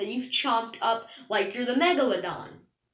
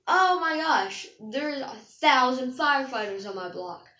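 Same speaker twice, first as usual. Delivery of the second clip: mock exaggerated gasp; 3 dB louder than usual. Mocking an exaggerator with a gushing gasp. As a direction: ham up the overblown shock. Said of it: "a good example of that would be, like".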